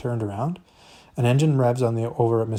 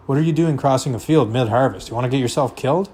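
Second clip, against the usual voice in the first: gruff scolding; 3 semitones higher, 5 dB louder than usual. Acted. Farmer scolds boy in field.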